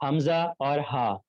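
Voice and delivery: حمزہ اور ہا said slowly, each letter drawn out from the throat; slow letter demo. Shown as a demonstration. Teacher to online class, slow letter demo. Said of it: "یہاں پہ لکھا ہوا ہوگا".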